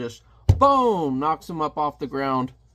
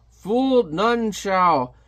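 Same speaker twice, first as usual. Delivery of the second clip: loud, higher scornful villain jeer; mocking guard; 6 semitones higher, 4 dB louder, much slower than usual. The guard lifting Hellboy, loud scornful jeer. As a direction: sneer it down at the hero. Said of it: "He's like".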